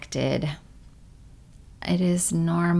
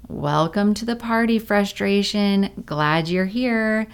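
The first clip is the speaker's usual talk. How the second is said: welcoming; 4 semitones higher than usual. Shown as a demonstration. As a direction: greet frustration like a guest. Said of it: "allow offers us another option".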